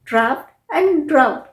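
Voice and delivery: ड्राफ्ट with an F, ड्राउट with none; contrasting pronunciations. Shown as a demonstration. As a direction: set ड्राफ्ट against ड्राउट, "draft" then "drowt". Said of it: "पर pronunciation में बहुत अंतर है".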